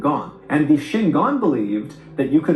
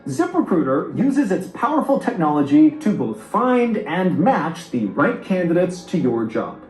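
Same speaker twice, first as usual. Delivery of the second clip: smooth upbeat ad read. Acted. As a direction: sell it like a sponsor spot. Reads sponsor ad.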